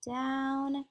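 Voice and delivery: DOWN held long, lifting at the end; drawn-out DOWN. Shown as a demonstration. Teacher leading pupils as they skywrite, drawn-out DOWN. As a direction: stretch DOWN to match the stroke. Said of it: "you say it with me".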